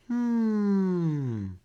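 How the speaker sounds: high, timid little turtle voice; small turtle Franklin. A narrator's reading. Franklin asks the duck for help, high and timid. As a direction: ask like a shy child. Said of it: "said Franklin".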